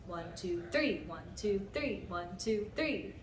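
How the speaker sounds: counting one, two, three with THREE accented each bar; stress on three. Shown as a demonstration. Teacher showing another off-beat count, three stressed. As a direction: lean on every three as you count. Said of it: "Putting the emphasis on any other beat".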